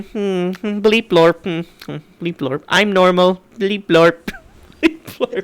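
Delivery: beeping robot voice, chuckling. Retold or imitated. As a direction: hum and beep like a toy robot. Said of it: "I started doing a robot voice".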